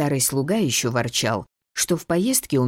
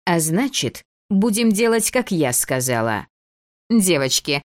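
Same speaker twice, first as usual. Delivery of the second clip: bossy little princess. Acted. Дебора настаивает на своём.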